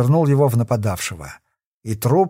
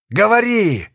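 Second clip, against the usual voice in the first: higher, sharp shout of rage; furious yell; 7 semitones higher, slower than usual. A narrator's reading. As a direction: bark the order in a fury. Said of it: "вне себя от ярости заорал Кокон".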